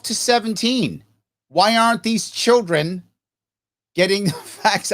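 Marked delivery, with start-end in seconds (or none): 1.5-4.9 breaking into a laugh mid-question; can't keep a straight face. Shown as a demonstration. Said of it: "I can't even say it with a straight face".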